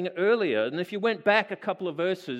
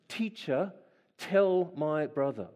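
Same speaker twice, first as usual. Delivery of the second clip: demanding; 3 semitones lower, slower than usual. Retold or imitated.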